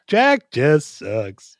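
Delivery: very slow, drawn-out quoted verdict; sound bite voice. Retold or imitated. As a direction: drag each word like a clip. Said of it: "Anytime they mention a character".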